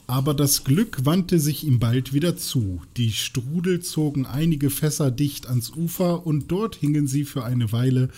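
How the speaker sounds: bedächtiges, deutliches Vorlesen; Vorlesen aus einem Buch. Acted. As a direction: read it out like a storyteller. (bedächtig erzählend vorgelesen)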